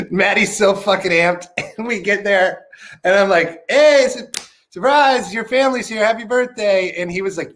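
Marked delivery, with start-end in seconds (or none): 3.7-6.9 pitched up like yelling surprise; mock surprise reveal. Telling friend his family is here, excited higher shout.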